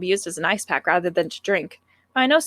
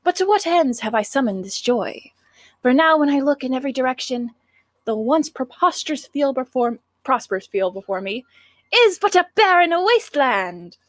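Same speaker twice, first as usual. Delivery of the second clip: dramatic recitation; 2 semitones higher than usual. Acted. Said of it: "impossible for me to take you seriously when you talk like that".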